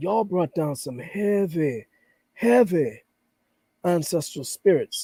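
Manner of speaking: impression of an elder. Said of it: "and I can imitate his voice".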